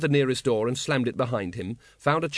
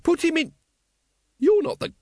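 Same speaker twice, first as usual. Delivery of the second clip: high, hysterical screamed orders; frenzied yelling, climbing higher. A narrator's reading. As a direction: shriek commands until you break off. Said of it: "screamed Once".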